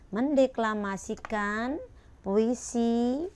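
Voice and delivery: loud, slow title with rising phrase ends; title read out. Shown as a demonstration. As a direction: announce each item slowly and loudly. Reading the lesson title aloud. (membaca judul dengan lantang dan pelan)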